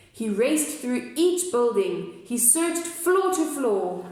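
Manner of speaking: rhythmic read-aloud narration; story narration. A narrator's reading. Narrating the mayor's search to the kids, sing-song. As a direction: read the verse to the children with bounce.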